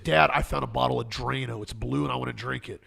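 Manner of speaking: a mild deadpan father voice; folksy old sitcom dad. Retold or imitated. Mock dad sarcastically allows poison.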